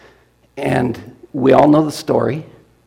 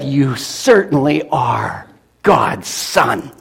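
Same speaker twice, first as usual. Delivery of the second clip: slow, reverent declaration; awed worship; much slower than usual. Acted. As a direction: say it in awe, slowly. Disciples worship Jesus.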